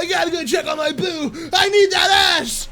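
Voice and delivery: high, loud mock desperation; hammed-up frantic shout. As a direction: yell it, climbing to a peak. Comic frantic ad-lib in character.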